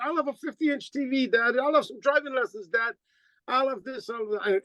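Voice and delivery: a light mock of kids reeling off Christmas wishes; imitating kids. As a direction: list the wishes like greedy kids. Kids' Christmas demands imitated.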